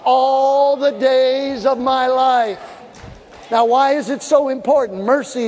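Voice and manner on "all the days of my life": slow, stretched preaching refrain; drawn-out refrain. Acted. Preacher leading the church in the refrain, slow and stretched. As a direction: let the congregation sing it back with you. Repeated refrain, congregation fills in.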